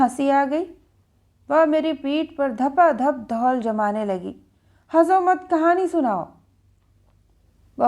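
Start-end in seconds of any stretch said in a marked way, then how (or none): 4.9-6.3 put-on child scolding. Child scolds laughing grandmother.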